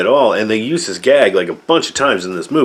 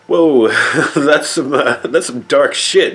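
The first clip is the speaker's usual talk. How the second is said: a higher, slow, laughing whoa at something grim; half-laugh in disbelief at how dark it is; stunned whoa; 5 semitones higher than usual. Real, not acted. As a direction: caught off guard, chuckling. Reacting to a grim movie scene.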